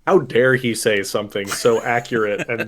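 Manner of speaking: loud playful indignation; mock outrage. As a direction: huff it out, pretend scandalised.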